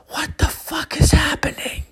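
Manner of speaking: high, strained cry of disbelief; bewildered. Retold or imitated. Stoned gamer watching his furniture dance, bewildered. Acted bewildered reaction to hallucination.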